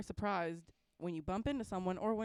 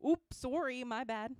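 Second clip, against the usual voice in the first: put-on polite Canadian accent apology; chirpy Canadian accent sorry; 4 semitones higher, 4 dB louder, slower than usual. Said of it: "your best Canadian accent".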